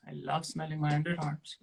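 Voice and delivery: soft, shy attempt at seduction; mock seductive. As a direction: try to sound seductive but hold back.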